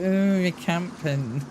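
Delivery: drawn-out, sneering imitation of a player; mock the accusation slowly, in a put-on voice; slow mocking whine. Streamer mocking players who accuse him, slow mocking whine. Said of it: "But everyone's like".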